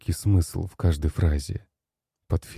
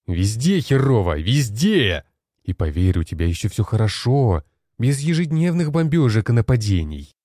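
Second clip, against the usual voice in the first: heated retort; 5 semitones higher than usual. Acted. General argues everyone suffers.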